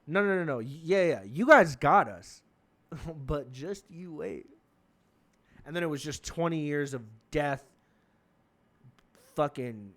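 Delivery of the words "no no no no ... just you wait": confident taunt, stretching the words; George Bush. Retold or imitated. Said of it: "the confidence that he had".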